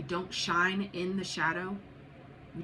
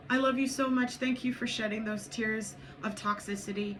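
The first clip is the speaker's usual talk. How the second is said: higher-pitched affection, easing off in volume; nurturing self-talk; 3 semitones higher than usual. Acted. Reader modelling thanks to yourself for crying, higher nurturing tone. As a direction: reassure yourself after tears. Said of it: "Are you nurturing to yourself".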